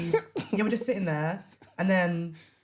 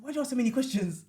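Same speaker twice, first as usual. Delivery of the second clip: higher-pitched mock irritation breaking into laughter; annoyed; 6 semitones higher than usual. Woman mimicking her date tired of her questions, mock annoyed. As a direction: imitate a peeved complaint, amused. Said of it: "he's getting annoyed at me".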